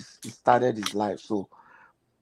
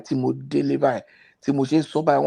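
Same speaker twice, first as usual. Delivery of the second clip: ordinary talk, nothing marked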